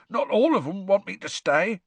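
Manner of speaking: lightly rasped, choked-up Hagrid insisting; hoarse. Acted. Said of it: "said Hagrid hoarsely".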